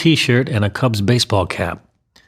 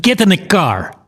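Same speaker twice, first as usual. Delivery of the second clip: raised, high-pitched mobster's command; shouted order; 9 semitones higher than usual. A narrator's reading. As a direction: order the kid with a moderate shout. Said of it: "grabbed the kid's left arm and shouted".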